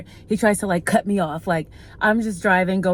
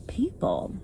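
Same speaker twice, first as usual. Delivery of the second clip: breathy exasperated whisper; real whispered sigh of frustration; whispered aside; 3 semitones higher, 6 dB quieter than usual. Real, not acted. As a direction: drop to a whisper of disbelief. Exasperated aside about drivers.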